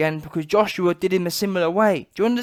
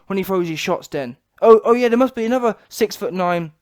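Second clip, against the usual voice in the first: usual speaking voice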